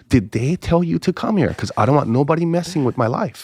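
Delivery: high, indignant challenge; suspicious confrontation. Retold or imitated. Confronts visitor about recruiting him.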